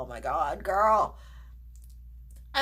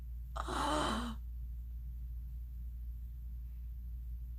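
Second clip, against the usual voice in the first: long breathy gasp falling away; drawn-out hushed gasp; long soft gasp; 15 dB quieter than usual. Real, not acted. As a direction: gasp softly and let it fade. Awestruck at makeup.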